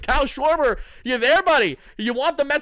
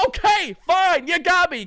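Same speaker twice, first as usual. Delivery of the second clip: mock surrender; 7 semitones higher, 4 dB louder, slower than usual. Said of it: "I say".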